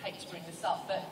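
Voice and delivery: soft, tentative request; softly apologetic interruption; hesitant, polite approach. Retold or imitated. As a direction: raise it gently with the boss. Hesitant approach to her boss.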